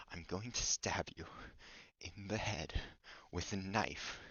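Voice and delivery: hushed joking threat, unvoiced at first; a quiet pretend threat to a co-host who won't shut up; mock menacing whisper. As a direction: whisper the threat like a cartoon villain.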